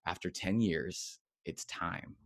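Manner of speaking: low, slow, hushed voice; retold inner whisper. Retelling the whisper that called him after ten years, hushed. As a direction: imitate a quiet calling, fading to near whisper. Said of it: "That same whisper came back".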